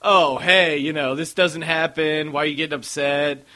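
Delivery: imitating a casual, insincere apology; mock the bartender's breezy attitude, swelling on the apology; lightly mocked non-apology; dismissive apology. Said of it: "just her overall attitude of".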